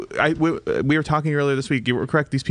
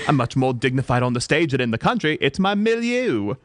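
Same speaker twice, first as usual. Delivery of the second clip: put-on wobbly British accent with an Australian tinge; British accent drifting Australian. Mother preferring stage to country, wobbly British accent. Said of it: "That was a little Australian".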